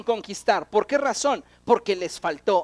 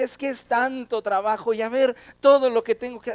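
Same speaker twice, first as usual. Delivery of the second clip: louder mock complaint; complaining; 2 semitones higher, 5 dB louder than usual. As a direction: imitate someone griping about the workload. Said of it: "personas que se quejan".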